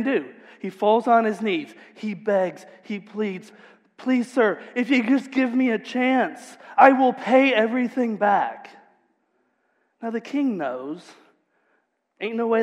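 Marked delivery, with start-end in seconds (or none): 4.0-8.7 pleading servant, raised and higher; begging servant. Acted. Kneeling servant to king, pleading. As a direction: beg for mercy on your knees.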